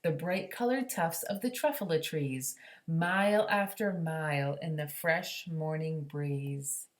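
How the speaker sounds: gentle read-aloud storytelling; story narration. A narrator's reading. Teacher reading a picture book to the class, gently. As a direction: read it like a bedtime story to children.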